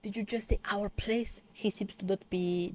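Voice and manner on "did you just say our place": lightly voiced teasing kid; mock little brother. Little brother teasing his sister, mock voice. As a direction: play the bratty brother, drawn out. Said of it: "the little brother is like".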